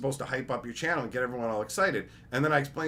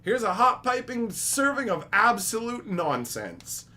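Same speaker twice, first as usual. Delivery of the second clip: mock waiter serving; 8 semitones higher, 4 dB louder than usual. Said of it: "be like".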